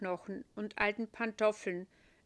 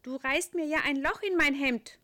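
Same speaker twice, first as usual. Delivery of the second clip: angel voice; 6 semitones higher, 8 dB louder than usual. A narrator's reading. Angel character.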